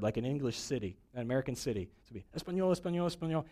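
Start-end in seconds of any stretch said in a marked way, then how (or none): 2.4-3.4 mock Spanish newscaster. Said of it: "when they get to an English word".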